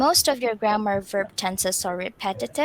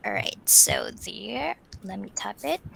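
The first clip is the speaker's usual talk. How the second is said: whispering; 3 dB quieter than usual. Real, not acted. Aside while tapping the screen.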